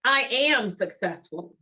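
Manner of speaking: slow, with "am" leaned on hard; a slow, firm affirmation that presses on "am"; stress on AM. Shown as a demonstration. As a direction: hit the word "am" firmly, I AM successful. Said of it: "notice the emphasis on am".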